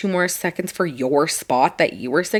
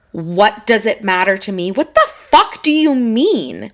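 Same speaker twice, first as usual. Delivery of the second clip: louder, slowed indignant retort; retold outraged comeback; 4 dB louder than usual. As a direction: throw his words back at him, appalled. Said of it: "he was like".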